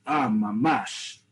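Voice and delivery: "mamash" stretched slowly in mock agreement; slow ironic "mamash"; sarcastic drawn out. Shown as a demonstration. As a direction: drag out "mamash" dripping with sarcasm. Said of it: "That's how you would use it as a sarcastic way".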